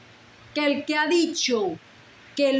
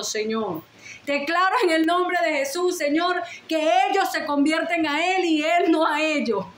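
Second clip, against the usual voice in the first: a mother's pleading prayer, voice lifted a bit; retold fervent prayer; 4 semitones higher than usual. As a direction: pray over the son with fervour, not full force. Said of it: "que yo decía". (oración ferviente recordada, algo más aguda)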